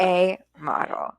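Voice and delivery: slow, deliberate repeat of "A model"; emphatic. Real, not acted. Co-host repeating her praise after a laugh, emphatic. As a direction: land "A model" slowly, word by word.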